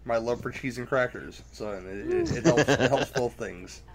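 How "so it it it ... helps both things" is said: laughing. Real, not acted. Laughing through explanation.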